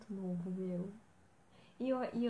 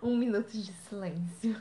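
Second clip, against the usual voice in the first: laughing; 6 dB louder than usual. Real, not acted. Mock solemn tribute.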